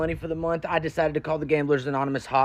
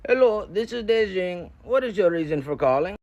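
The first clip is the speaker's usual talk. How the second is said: higher, slow-starting put-on phone voice; put-on call-taker greeting, pitched up; hotline worker; 6 semitones higher than usual. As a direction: imitate a hotline operator answering in a raised pitch. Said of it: "I finally hear a human being's voice".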